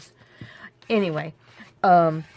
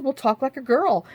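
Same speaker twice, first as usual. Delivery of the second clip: high mock girl voice; 7 semitones higher than usual. Telling husband to use high voice.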